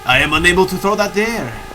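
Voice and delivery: light mock French accent; Bernard Revenue, French accent. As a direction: play a soldier with a rough French accent. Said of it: "I'm imagining he's French".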